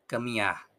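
"Caminar" low and soft, final r dropped; gentle "Caminar" with no audible r; very soft ending. Shown as a demonstration. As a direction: let "Caminar" fade on the a. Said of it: "Muy suave".

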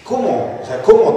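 high, puzzled questioning; retold bafflement. Preacher baffled by God's answer, high and incredulous. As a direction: act taken aback, pitch jumping up.

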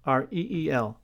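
letter by letter, R E E L; spelled out. Shown as a demonstration. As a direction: spell "R E E L" one letter at a time.

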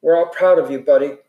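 loud, proud praise. Acted. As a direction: cheer him on, loudly. Dally praising dying friend.

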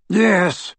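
terse. A narrator's reading. Aberforth answering about his sister, tersely. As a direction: cut the answer short. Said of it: "said Aberforth tersely".

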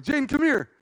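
high, sweet come here; luring call. Retold or imitated. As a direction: coax her toward the tree house. Luring sister.

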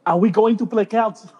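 badly faked French accent; a not very French card-player accent; mock French accent. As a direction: put on a weak French accent. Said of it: "he doesn't even sound that French".

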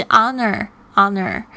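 honor with no h sound, starting on the vowel; slow careful honor with a silent h. Shown as a demonstration. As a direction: say honor slowly as on-er. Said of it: "是honor，honor".

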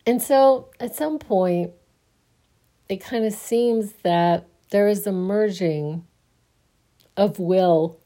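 talking through a yawn; sleepy, mid-yawn speech. Real, not acted. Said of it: "Sorry about my yawning".

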